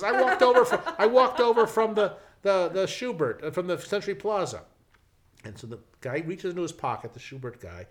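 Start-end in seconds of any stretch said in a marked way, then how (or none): 0.0-4.6 much louder and higher, shouting at full tilt; top-of-lungs yell that the hotel is across the street; furious shout. Retold or imitated. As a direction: bellow it in outrage. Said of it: "he is yelling and screaming".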